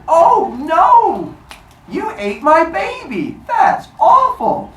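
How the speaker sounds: high, loud, drawn-out fake wail; hammed-up, slow high-pitched lament; mock horror. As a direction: overact a mother's horrified outcry. Rhea fakes horror at baby eaten.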